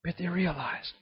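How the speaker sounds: normal talking voice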